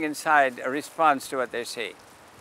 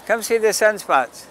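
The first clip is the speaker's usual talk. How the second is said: higher, louder barker's call; loud, high sidewalk pitch; calling out to the street; 6 semitones higher, 5 dB louder than usual. Real, not acted. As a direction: hawk the telescope to the crowd. Calling out to passersby.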